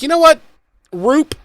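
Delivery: high, sudden exasperated call-out; exasperated outburst. Retold or imitated. Fed-up viewer snapping at Giles, high and exasperated. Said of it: "I'd be like".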